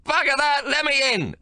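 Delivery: put-on high, loud old man bellowing; angry shout. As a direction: demand entry, raging. Old man pounding locked door.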